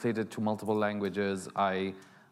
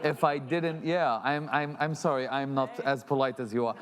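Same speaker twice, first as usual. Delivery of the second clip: laughing through it; 4 semitones higher than usual. Real, not acted. Apologising to the moderator, laughing through the words. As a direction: say sorry while laughing.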